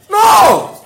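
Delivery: shouted, laughing No; emphatic shout. Real, not acted. Preacher answering his own question with a loud laughing shout. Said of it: "Do you speak grammar?".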